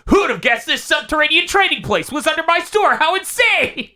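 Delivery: very high, gleeful showman impression; hammed-up mock amazement. Urahara jokes about his store, in hammed-up amazement.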